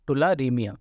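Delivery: "tularemia" sounded out slowly, unsure of it; careful, slow attempt at "tularemia"; tentative pronunciation. Real, not acted. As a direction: slowly feel your way through "tularemia". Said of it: "जो कुछ भी pronunciation हो".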